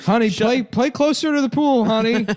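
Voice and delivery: high, mock-sweet call to a child; parent calling out. Parent urging a son closer to the pool, high mock call.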